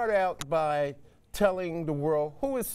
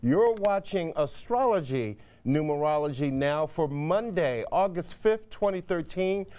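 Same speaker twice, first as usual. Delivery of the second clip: upbeat broadcast host opening; TV host intro. Acted. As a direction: present it like a live TV show open. Host's TV show opening.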